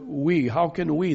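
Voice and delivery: "we" set out as the key word; emphasis on we. Shown as a demonstration. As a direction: give "we" weight each time. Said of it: "Paul puts great emphasis on this word".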